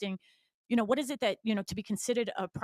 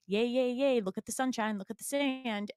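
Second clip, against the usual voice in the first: higher, playful cheering; lightly hammed-up excitement; mock delight; 4 semitones higher than usual. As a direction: play the thrilled new arrival. Acting out new Florida residents' delight.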